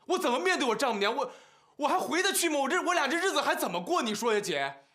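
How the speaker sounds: worked-up protest at a sister; agitated ranting. Acted. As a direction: rant in exasperation, pleading for an answer. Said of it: "你也别冲我们嚷嚷".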